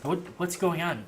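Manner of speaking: just roused, lightly voiced and bewildered; sleepy mayor. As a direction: drag out a groggy question. Mayor just woken, rubbing sleep away.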